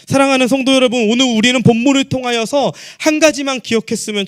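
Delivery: high, forceful pulpit proclamation; projected sermon delivery; impassioned preaching. Acted. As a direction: preach it out high and sustained, driving every phrase.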